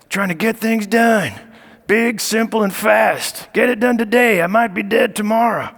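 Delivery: lightly voiced old man, a touch raspy; hint of a folksy old president pushing to get it done; mild Joe Biden impression. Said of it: "that is my Joe Biden voice".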